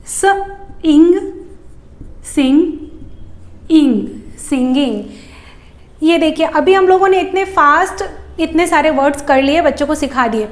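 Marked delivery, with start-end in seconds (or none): 0.1-5.0 स, इंग, सिंग, then इंग added to make सिंगिंग; playful blending game for children; sound blending. Shown as a demonstration. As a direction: build सिंगिंग step by step. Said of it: "बच्चों के लिए game के जैसा".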